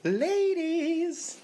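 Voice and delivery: husky lounge-singer croon; sultry narrator. Pretend. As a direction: purr it out to the ladies.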